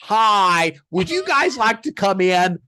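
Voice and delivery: innocent, breezy invitation to the agents; mock polite invitation. Inviting arresting agents inside, breezily polite. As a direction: play it cheerfully casual. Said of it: "said it exactly like that".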